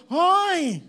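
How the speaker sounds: sharp high yell of alarm; retold shout. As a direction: startle a thief in the dark. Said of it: "Ganon, ganon sigaw niya".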